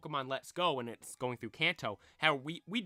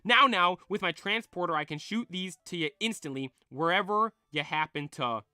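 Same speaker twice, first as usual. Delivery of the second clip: Bill voice; 3 semitones higher, 5 dB louder than usual. Acted. Bill voiced in manga reading.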